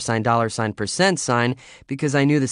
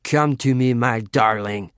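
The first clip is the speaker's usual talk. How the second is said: hammy lover; 4 dB louder, slower than usual. Acted. Hammed-up lover role.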